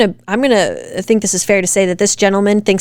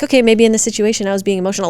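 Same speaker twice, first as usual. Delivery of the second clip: quick calm admission; faster than usual. Retold or imitated. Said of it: "I'd be like".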